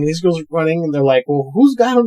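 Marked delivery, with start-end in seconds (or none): 1.3-2.1 high-pitched worried question; hammed-up anxious voice; mock alarm. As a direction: imitate a flustered bystander asking urgently. Acts alarmed exchange among fleeing girls.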